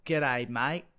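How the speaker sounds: unhurried Aussie G'day, mate; slowed Australian accent. Shown as a demonstration. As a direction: model an Australian G'day slowly, drawing out the vowels. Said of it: "slow it down a bit".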